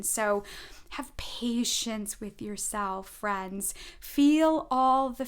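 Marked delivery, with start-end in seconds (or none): 0.9-3.7 soft reassurance. Real, not acted. Gentle advice to viewers.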